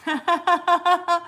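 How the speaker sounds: sudden loud final mash; loud punch. Real, not acted. Streamer ending her like-button chant loudly. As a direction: burst out on the last word.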